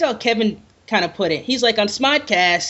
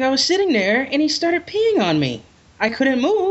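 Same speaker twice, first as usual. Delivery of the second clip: lightly voiced, higher plaintive retelling; a hint of mock helplessness; mock victim; 5 semitones higher than usual. Friend plays the character who got peed on, mock plaintive.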